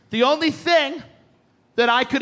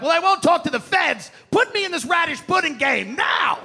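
pushy yell; 5 semitones higher than usual. Retold or imitated. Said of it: "I'm like".

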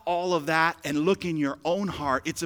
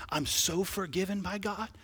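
soft inner voice; 2 semitones lower, 7 dB quieter than usual. Pretend. Imagined believer's inner voice.

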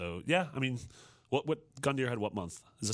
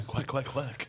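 duck quacking; 2 semitones higher, slower than usual. Acted. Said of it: "That's Duck Nukem".

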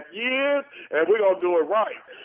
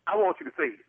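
insisting, higher; 11 semitones higher, 3 dB quieter, much faster than usual. Real, not acted. Lorenzo repeats his demand much higher.

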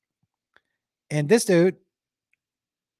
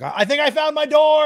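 dazed tripping friend; 10 semitones higher, 5 dB louder, faster than usual. Retold or imitated.

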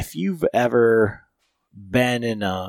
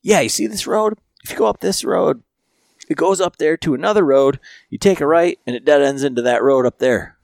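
much higher, louder mock Frank giving directions; imitating Frank; 5 semitones higher, 6 dB louder than usual. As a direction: ham up Frank's useless directions. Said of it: "But he says".

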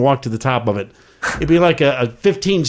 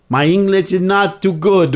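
put-on Italian accent; 4 semitones higher than usual. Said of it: "pretended like I didn't know English".

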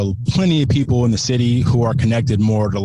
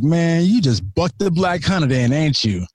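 higher, laughing mock hype; buddy teasing; 5 semitones higher than usual. Buddy ribbing him about the deer, high and laughing. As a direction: tease him like a buddy who just found a nickname. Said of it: "my buddy looks at me and he was like".

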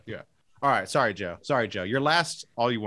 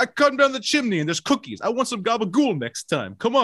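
Long Island Santa; 5 semitones higher than usual. Acted. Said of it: "Long Island vampire".

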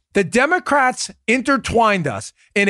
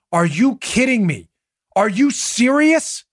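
incredulous; 4 semitones higher, slower than usual. Real, not acted. Incredulous at Warner quote.

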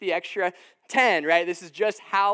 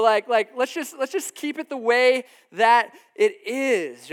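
disciples grumbling; 5 semitones higher, 3 dB louder than usual. Retold or imitated. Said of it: "Peter and John ... thinking the exact same thing".

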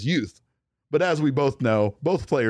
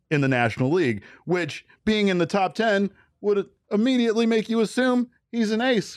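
southern attorney. Pretend. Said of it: "southern attorney, sir".

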